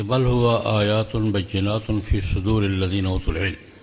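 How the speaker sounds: slow, measured Arabic recitation; Quran recitation. Acted. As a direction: intone the verse reverently.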